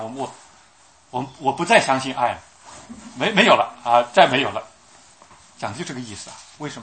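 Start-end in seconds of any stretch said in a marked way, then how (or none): 1.1-4.6 bitter despair. Acted. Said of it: "就像我们讲的".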